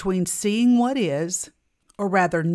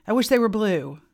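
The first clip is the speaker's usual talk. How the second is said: retold exasperation, louder and higher at first; frustrated; 4 semitones higher, 6 dB louder than usual. Woman retelling her gripe about the basement steps, frustrated. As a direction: vent mildly, as if reliving a gripe. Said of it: "I added in with frustration".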